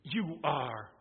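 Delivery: YOU and ARE stressed firmly; emphatic. Acted. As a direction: hit both words of "You are" deliberately. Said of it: "It's an emphatic".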